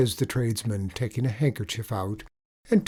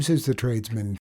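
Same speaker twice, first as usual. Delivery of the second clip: plain reading voice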